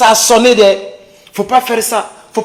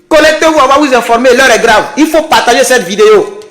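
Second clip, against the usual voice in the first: fiery revolutionary speech; 3 semitones higher than usual. Acted. Rallying viewers to connect.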